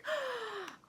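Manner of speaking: soft, high intake of breath; excited gasp. Real, not acted. Vlogger holding the last item, excited gasp. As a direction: gasp with anticipation.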